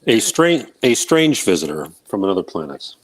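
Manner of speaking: canyon echo. Real, not acted. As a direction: voice ringing with an echo. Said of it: "Oh, you've got an echo".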